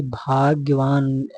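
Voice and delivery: भाग्यवान slow, with long held vowels; slow, emphatic भाग्यवान; correct form stretched. Shown as a demonstration. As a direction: draw out bhaag-ya-vaan for भाग्यवान. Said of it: "नीचे हलंत रहेगा".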